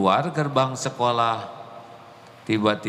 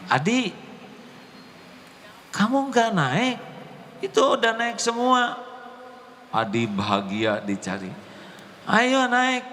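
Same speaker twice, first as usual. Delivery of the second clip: friend calling out; 12 semitones higher than usual. Retold or imitated. Classmate urging Adi to get on the bus, high call. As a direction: call the boy onto the bus.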